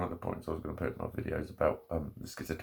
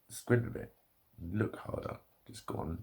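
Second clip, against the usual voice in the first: mock advice. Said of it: "you can't just tell people who need glasses to just".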